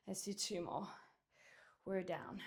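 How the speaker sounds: breathy effortful whisper through the rep; strained whisper. Real, not acted. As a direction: push the words out on an exhale.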